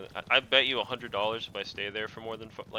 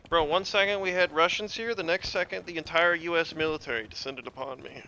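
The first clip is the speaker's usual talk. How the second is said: exasperated outburst; 6 semitones higher than usual. Real, not acted. Ambushed by enemy squad.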